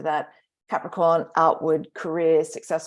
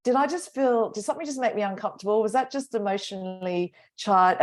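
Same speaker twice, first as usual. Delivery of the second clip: questioning herself; 5 semitones higher than usual. Retold or imitated. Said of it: "I've just started to go".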